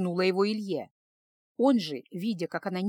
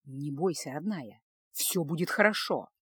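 much softer and lower, tender comfort; soft reassurance; 6 semitones lower, 5 dB quieter than usual. A narrator's reading. Husband calming his frightened wife, soft and low. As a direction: soothe her fears gently. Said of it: "С мягкой улыбкой".

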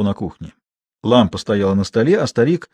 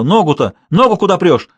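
high, bossy scolding; insistent high-pitched commands; old woman shouting; 7 semitones higher, 4 dB louder than usual. A narrator's reading. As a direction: shout orders while shoving from below. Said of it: "кричала".

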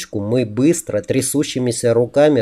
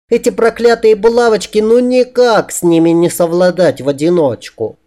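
high, put-on girlish complaint; fake female falsetto; 7 semitones higher than usual. A narrator's reading. He excuses himself to customers as a woman, in falsetto. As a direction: keep up the squeaky lady act.

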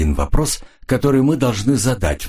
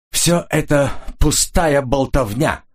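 breaking voice; 7 semitones higher, slower than usual. A narrator's reading. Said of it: "начал он срывающимся голосом".

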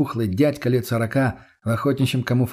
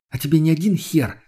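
sudden anger; 5 semitones higher than usual. Acted. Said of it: "мгновенно разозлилась Лена".

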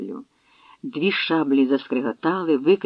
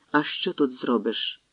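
heavy sigh; 3 semitones lower, 5 dB quieter, slower than usual. Acted. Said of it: "зітхнув важко".

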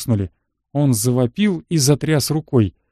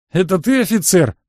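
mildly scoffing question, pitched higher; a touch of disbelieving mockery; 5 semitones higher than usual. A narrator's reading. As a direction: scoff at his rank, lightly. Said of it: "хмыкнул негр".

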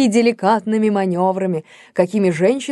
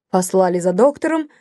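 ordinary delivery, nothing marked

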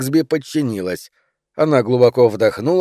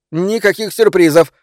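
higher-pitched indignant refusal; mild outburst; 6 semitones higher, 4 dB louder than usual. A narrator's reading. Wife refuses her husband's surprise, exploding mildly. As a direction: blurt it out, higher and exasperated. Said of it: "взорвалась она".

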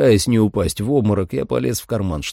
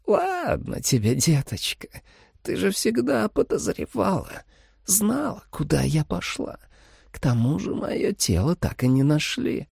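soft, higher, coaxing; sweet vampire mother; 10 semitones higher, 4 dB quieter than usual. A narrator's reading. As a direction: lull the girl with fake tenderness.

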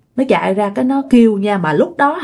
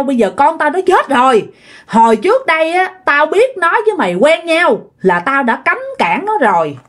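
mildly heated accusation, often pitched up; retold angry scolding; 2 semitones higher than usual. Grieving father blaming his son's lover, retold scolding. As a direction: scold in a storyteller's restrained mock anger. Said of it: "chạy ra chửi quá trời luôn".

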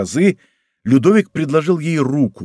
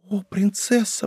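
1 horrified cry; 8 semitones higher, 6 dB quieter, slower than usual. A narrator's reading. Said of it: "почти с ужасом вскричала".

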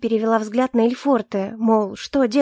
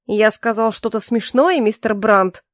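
cold. Acted. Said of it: "холодно произнёс Мэклбери".

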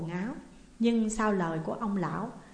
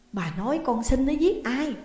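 shocked outcry; 5 semitones higher, 4 dB louder than usual. A narrator's reading. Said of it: "bà lại thảng thốt kêu lên".

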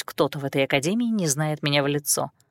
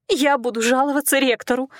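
sobbing threat; 6 semitones higher than usual. A narrator's reading. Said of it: "со всхлипом заявила девушка".

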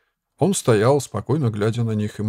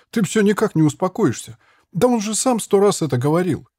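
exasperated outburst; 9 semitones higher than usual. A narrator's reading. Boy flaring up at monk.

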